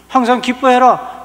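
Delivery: loud, high, slow decree; preaching the verse at full force; proclaimed command. Acted. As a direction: thunder it out from the pulpit.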